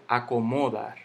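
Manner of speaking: "Acomodar" stressed off its final syllable, as a wrong example; misplaced stress. Shown as a demonstration. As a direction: say "acomodar" with the accent moved away from -dar. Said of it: "Yo no digo".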